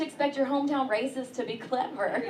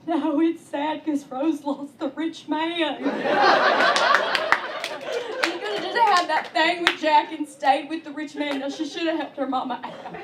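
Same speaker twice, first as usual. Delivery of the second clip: crying mom; 5 semitones higher, 5 dB louder than usual. Retold or imitated. A mom explaining Titanic to her kid, hammed-up tearful. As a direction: wail it mockingly as a greedy mom. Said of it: "my mom's crying and she's like".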